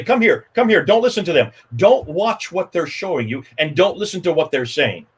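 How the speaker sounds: mock urgent call. Speaker imitating Hijab calling Muslims away, mildly urgent. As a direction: beckon them over, then warn them off. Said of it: "You can see him say".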